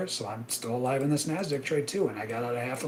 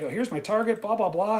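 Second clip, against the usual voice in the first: high, breezy mock of a guru; mocking casual trader; 7 semitones higher than usual. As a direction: toss it off like a careless guru. Mocks another room's trader.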